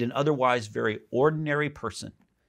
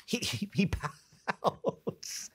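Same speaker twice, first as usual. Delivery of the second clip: soft, high, drawn-out through laughter; amused; 8 semitones higher, 6 dB quieter, much slower than usual. Real, not acted. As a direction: laugh your way slowly into it. Amused at Jonah pouting.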